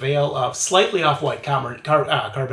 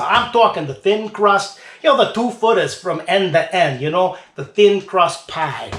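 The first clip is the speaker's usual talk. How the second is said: put-on lightly done New York accent, dropping the r's; a hint of a New York pizza guy. Beer reviewer hyping New York pizza, light New York accent. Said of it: "I don't know if that's a good New York accent".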